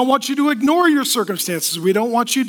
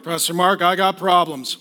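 low mock complaint to the pastor; troubled churchgoer; 8 semitones lower than usual. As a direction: imitate a downcast congregant, pitched low. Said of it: "some of you are like".

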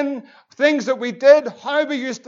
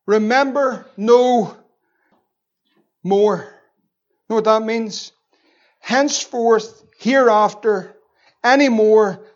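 slow deliberate God voice; slower than usual. Acted.

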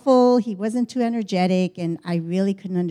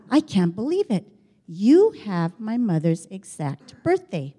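bewildered. Retold or imitated. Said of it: "he was just bewildered".

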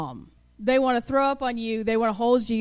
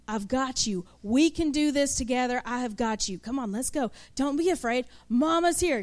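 tender mama. Acted. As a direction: hold the scared kid's hand and calm them. Mother reassuring afraid child.

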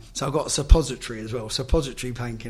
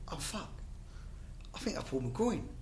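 much softer, hushed realisation of injury; retold pained groan; 3 semitones higher, 12 dB quieter than usual. Player retelling his injury in training, hushed pained muttering.

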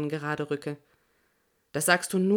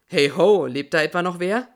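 lightly voiced man calling out; 6 dB louder than usual. A narrator's reading. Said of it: "eine Männerstimme antwortet".

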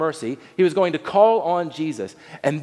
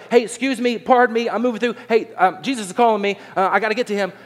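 lightly acted, higher-pitched urgent pleas; a hint of flustered excitement, pitched up; blind man pushing through; 5 semitones higher, faster than usual. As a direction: lightly play someone squeezing through a crowd.

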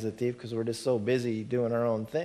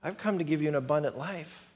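gentle voice; 4 dB quieter than usual. Acted. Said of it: "this other voice over here that says".

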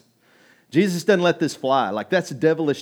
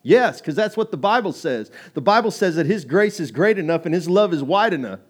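bold answer; 4 semitones higher, 5 dB louder than usual. Shown as a demonstration. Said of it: "that's what you should be saying".

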